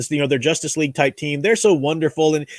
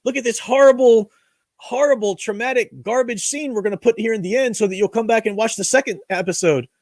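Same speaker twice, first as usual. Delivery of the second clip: higher, sneering mock-gloating voice; mocking the writers; 5 semitones higher than usual. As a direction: gloat like smug writers pulling a trick. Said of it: "That kind of".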